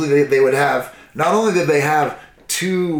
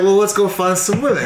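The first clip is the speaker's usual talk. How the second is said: mock eager voice; 6 semitones higher, 4 dB louder than usual. Tribe voiced in story.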